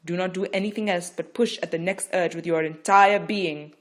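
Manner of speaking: loud, insistent coaching; firm instruction. Acted. Midwife instructing Rachel, firm and loud. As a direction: steel her for the final push.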